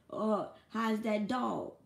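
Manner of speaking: drawn-out sly question; lingering mock-innocent ask; slow teasing. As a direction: tease him slowly about the dog. Mocking friends at the table.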